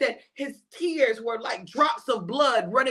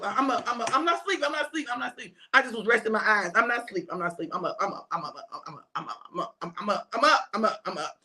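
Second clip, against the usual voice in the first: drowsy insisting; 4 semitones lower, faster than usual. Acted. Sleepy disciple insisting he's awake.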